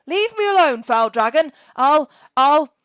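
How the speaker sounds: high, loud frightened threat; terrified cry. Acted. Boy threatening the dragon, high and loud in fear. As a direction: stammer a brave threat in panic. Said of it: "he cried".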